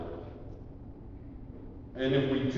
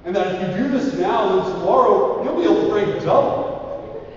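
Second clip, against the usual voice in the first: higher, louder wheedling voice; tempting flesh; 7 semitones higher, 5 dB louder than usual. Acted. Flesh tempting the student to skip prayer, higher wheedling. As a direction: coax urgently like a tempter. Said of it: "flesh tempting you".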